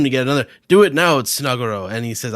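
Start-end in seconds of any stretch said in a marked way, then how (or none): 0.7-1.9 louder urgent order; urgent command. Acted. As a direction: bark the order at him. Urgent command in manga reading.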